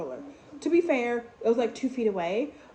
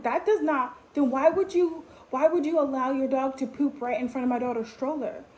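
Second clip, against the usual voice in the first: retold outrage, pitched up then easing; rising voice; 4 semitones higher than usual. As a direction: confront her, voice climbing in indignation. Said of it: "now I'm starting to get, like, higher".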